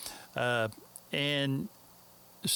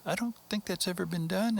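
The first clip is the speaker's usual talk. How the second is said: put-on high, proper English accent; fake English accent; 7 semitones higher than usual. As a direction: play a polite, doubtful Englishman. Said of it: "my fake English accent".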